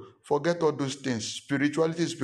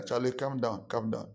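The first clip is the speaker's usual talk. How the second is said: calming down; 4 dB quieter than usual. Real, not acted. Pastor soothing an imagined angry Charlie, softly. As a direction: settle him down gently.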